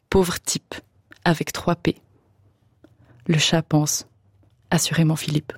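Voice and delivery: measured, deliberate reading over music; literary story reading. A narrator's reading. Author reading her text on the radio, measured narration. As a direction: read it like a radio short story.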